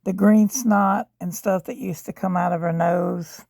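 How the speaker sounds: rough, worn-out voice from a sore throat; hoarse sick voice. Real, not acted. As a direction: speak through an inflamed throat. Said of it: "my voice is really, really bad".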